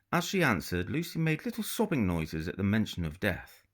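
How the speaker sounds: steady storytelling read; measured novel narration; story narration. A narrator's reading. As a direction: read it like an author sharing a chapter. Reads the novel aloud.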